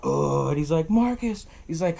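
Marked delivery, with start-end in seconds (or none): 0.0-0.5 mock vomiting noise; imitated retching. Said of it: "So he starts throwing up". 0.9-1.4 retold urgent call. Retold frantic call to friend.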